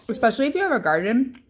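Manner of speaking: chewing while talking; words muffled by food; mouth full. Real, not acted. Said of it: "I'm talking with my mouth full".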